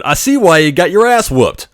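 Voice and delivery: retold cheeky taunt; taunting jab. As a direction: needle him on purpose. Tech taunts patient.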